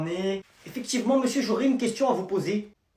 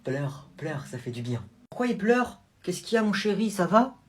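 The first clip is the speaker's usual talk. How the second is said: consoling aunt. Acted. Tante console l'enfant.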